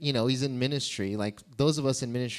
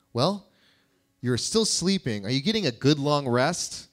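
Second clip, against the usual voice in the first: cheeky. Retold or imitated. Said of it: "Jesus is a little cheeky".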